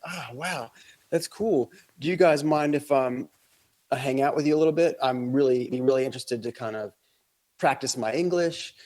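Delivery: a hint of a chummy stranger; friendly local guy. Local guy befriending tourists, lightly voiced eager.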